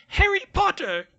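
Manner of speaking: very high, squeaky house-elf voice; high-pitched elf voice. A narrator's reading. House elf greets his hero in a high-pitched voice. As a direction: squeak it out like an eager little elf. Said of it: "said the elf in a high-pitched voice".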